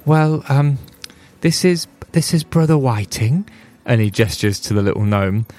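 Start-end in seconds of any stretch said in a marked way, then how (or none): 0.1-3.5 dwarf voice. Acted. Dwarf introduces gnome.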